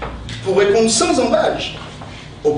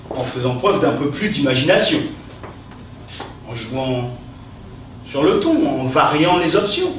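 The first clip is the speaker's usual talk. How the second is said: theatrical verse recitation, with pauses; hammy stage actor; 2 semitones higher than usual. Acted. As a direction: declaim each insult like Cyrano. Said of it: "utiliser son style".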